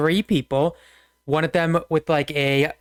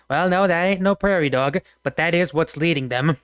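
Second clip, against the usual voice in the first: Brer Rabbit; 3 semitones higher than usual. Acted. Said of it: "Brer Rabbit just goes".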